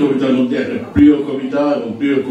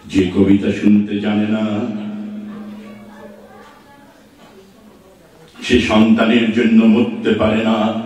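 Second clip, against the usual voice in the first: measured, declaimed verse with drawn-out line endings; poetry recitation; slower than usual. Acted. Recites a poem after introducing it. (ধীর লয়ে আবেগ দিয়ে কবিতা আবৃত্তি)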